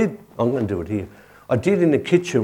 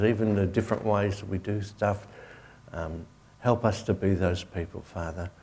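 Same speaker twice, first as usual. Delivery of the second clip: closing prayer over the congregation. Acted.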